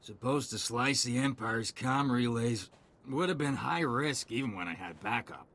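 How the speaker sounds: mildly tipsy, resigned soldier; drunk. Acted. Soldier offering a stranger the data spike, mildly drunk. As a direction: explain it loosely, a few drinks in. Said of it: "You smell like you've had a few too many drinks".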